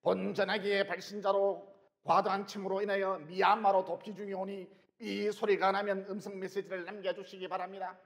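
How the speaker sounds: imitating a recorded phone message; answering machine voice. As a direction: read it like an automated voicemail. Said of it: "저도 그대로 따라 했죠".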